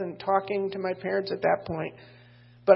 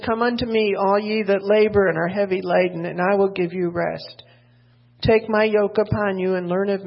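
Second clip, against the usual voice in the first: louder, measured Bible reading; scripture reading; 3 dB louder than usual. Acted. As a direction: proclaim the verses to the church. Reads scripture aloud to congregation.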